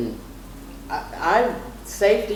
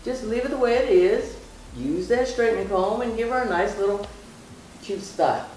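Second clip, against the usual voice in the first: emphatic refusal; 5 semitones higher than usual. Retold or imitated. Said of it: "I had to be emphatic with my hairdresser".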